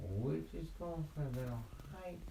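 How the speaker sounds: high, small kitten voice; little kitty. Acted. Kitty explaining a hike to the bear, high and innocent.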